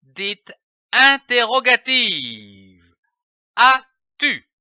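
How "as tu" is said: rising question on "As-tu?"; question tune. Shown as a demonstration. Teacher showing children a rising question. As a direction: lift "As-tu?" into a clear rising question. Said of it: "dans les phrases dites interrogatives".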